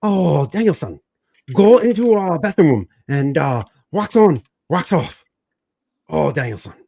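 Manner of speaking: a lightly done mock Asian accent, Mr. Miyagi style; hammed-up movie sensei with a light Asian accent. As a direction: parody a martial arts master with an Asian accent. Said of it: "sounds like you have an Asian accent".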